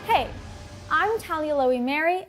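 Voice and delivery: ordinary talk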